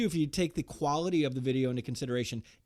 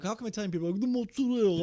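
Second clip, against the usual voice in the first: mock Italian; 6 semitones higher, faster than usual. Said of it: "He's like".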